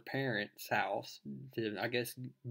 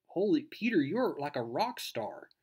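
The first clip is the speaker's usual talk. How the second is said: imitated excited girl; 4 semitones higher than usual. Girl to her superhero friend, excitedly impressed. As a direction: play a thrilled friend, pitch leaping up.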